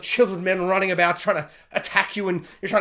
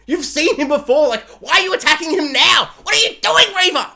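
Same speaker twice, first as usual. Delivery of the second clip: much higher, louder, laughing in disbelief; incredulous shout at Reva; 8 semitones higher, 5 dB louder than usual. Real, not acted. Fan yelling at Reva on screen, laughing and incredulous.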